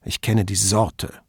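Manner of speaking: contemptuous. Acted. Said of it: "gab Padovani verächtlich zurück".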